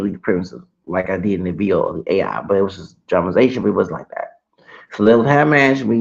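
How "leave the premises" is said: not screamed. Retold or imitated. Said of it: "she didn't scream".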